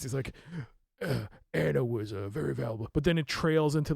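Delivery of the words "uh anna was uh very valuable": gruff voice. Retold or imitated. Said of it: "he's like, a really gruff voice".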